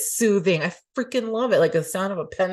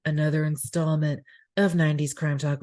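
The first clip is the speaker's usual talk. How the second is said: radio voice; 3 semitones lower than usual. Shown as a demonstration. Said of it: "This is now my radio voice".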